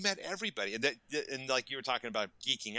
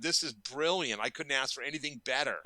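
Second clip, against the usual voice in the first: retold gushing praise; 4 semitones higher than usual. Retells gushing praise to presenters.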